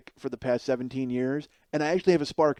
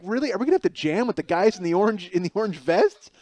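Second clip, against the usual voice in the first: alarmed disbelief; 5 semitones higher, 4 dB louder than usual. Retold or imitated. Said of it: "I'm like".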